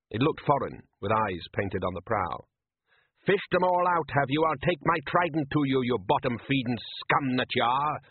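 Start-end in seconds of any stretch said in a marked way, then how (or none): 3.3-8.0 angry fisherman. Acted. Shouted quarrel between boats.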